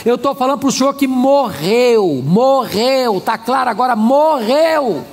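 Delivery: retold cross insistence. Angry woman insisting to pastor that love died, cross. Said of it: "Ela olhou brava pra mim".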